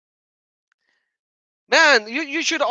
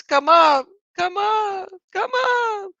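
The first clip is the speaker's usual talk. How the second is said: calling; 9 semitones higher, slower than usual. Real, not acted. Calling caller onto stage.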